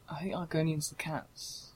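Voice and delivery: whispering. Real, not acted. Whispered reply in aside.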